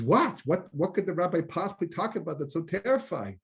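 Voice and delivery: a high startled what; surprised wife. Acted. Wife asks in joke.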